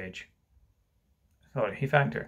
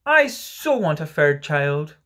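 slow, louder motherly insistence; emphatic reassuring mother; 2 semitones higher, 5 dB louder, slower than usual. Acted. Mother tells Michael she wants him, slow and emphatic. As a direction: draw it out to convince a hurt child.

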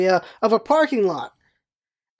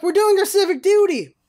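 higher-pitched, mock-righteous comeback; indignant retort; 8 semitones higher than usual. Pedestrians answering yelling bystander, imitated indignant retort. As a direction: fire it back as self-justified pedestrians.

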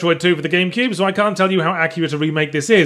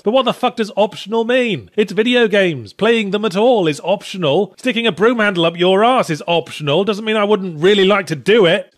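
raised pitch, indignant mock outrage; exasperated comic rant; 4 semitones higher than usual. Exasperated rant at publishers' "optional" excuse.

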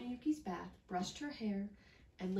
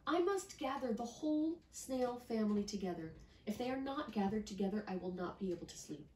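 put-on a child who cannot sleep yet; little girl voice; 3 semitones higher than usual. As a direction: rattle it off like an eager little girl. Miyuki voice continues.

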